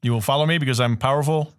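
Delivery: lightly voiced commanding villain; Emperor Ming. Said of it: "He looks like Emperor Ming from Flash Gordon".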